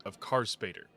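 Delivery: game master recap voice; story narration. Acted.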